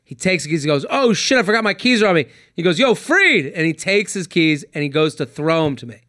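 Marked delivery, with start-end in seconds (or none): 0.9-2.3 quick, higher mock panic; sudden realization. Buddy realizing his keys are on him, mild panic. 2.8-3.5 higher-pitched retold holler; calling out. Buddy calling to his friend from the raft, mock holler.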